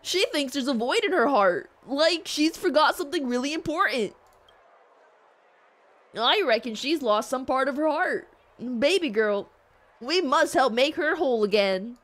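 lightly goofy cartoon voice. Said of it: "It's giving Goofy on drugs".

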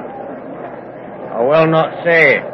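slow, stubborn refusal. Acted. Stubborn peasant refusing the reporter, slow and dogged. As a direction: dig in and refuse to answer.

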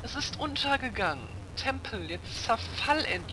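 high-pitched mock fanfare voice; high, jokey narration; mock high announcement. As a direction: squeak it out like a cartoon announcer.

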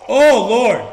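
high, loud playful cry; mock shout. Gamer reacting to drunk Steve, shouting. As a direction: belt it out in alarm. Game scene exclaim.

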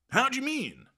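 high, cheerful surfer-dude puzzlement; puzzled, good-natured. Acted. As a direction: ask brightly, genuinely confused. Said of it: "in a puzzled but good-natured way".

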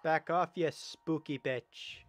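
loud, slow shout at the monster; defiant yell. Real, not acted. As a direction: bark it out to scare it off. Yelling at game monster.

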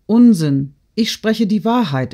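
put-on vigorous girlish retort; lively. A narrator's reading. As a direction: insist with spirit. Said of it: "erwiderte Natalie lebhaft".

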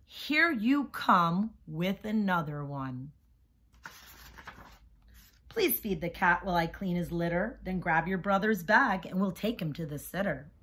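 rhythmic rhyming read-aloud; reading to children. A narrator's reading. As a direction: bounce the rhymes for young listeners. Reads picture book to class.

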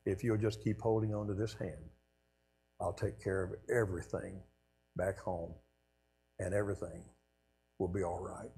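soft, hushed and reassuring, a promise; gentle inner voice. Retold or imitated. Recalling God's promise, softly reassuring. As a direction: voice of God heard in his head. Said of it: "the voice simply said".

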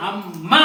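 అమ్మ split as "am-MA", pressed on మ్మ; firm doubled consonant. Shown as a demonstration. Teacher showing the conjunct sound, అమ్మ stressed on doubled m. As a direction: hold the m, then hit మ in అమ్మ. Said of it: "గట్టిగా ఒత్తిచ్చినప్పుడు".

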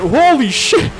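loud, high burst of shock; startled yell. Real, not acted. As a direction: cry out at a near crash. Near crash in racing game.

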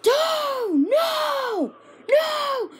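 loud, rising protests; repeated loud no. Real, not acted. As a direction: shout no at the screen. Fire reaching him.

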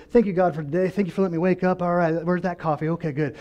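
perfunctory thanks. Acted. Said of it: "we're on the outward".

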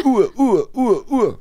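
high laughing Ur, Ur; mock squeaky stammer. Mocking the stammering quiz voice while laughing. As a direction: giggle the Ur syllables high.

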